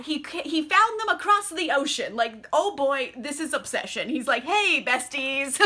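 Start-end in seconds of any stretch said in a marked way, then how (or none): 4.4-5.6 drawn-out, over-familiar hello; mock-chummy greeting. Lestat greeting his estranged besties, mock-chummy. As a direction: greet them like long-lost best friends.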